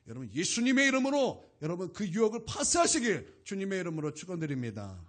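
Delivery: loud proclaiming; forceful blessing. Real, not acted. Preacher blessing the congregation, loud and forceful. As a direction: declare it with full force.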